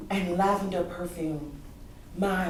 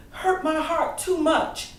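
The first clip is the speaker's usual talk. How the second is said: pained; 6 semitones higher, 4 dB louder, slower than usual. Acted. Grieving child admits the pain.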